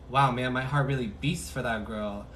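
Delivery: lightly voiced smitten masculine; a hint of a love-struck dude; mock lovestruck guy. Tarot reader voicing the smitten partner, lightly mock lovestruck. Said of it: "Why they talk like this?".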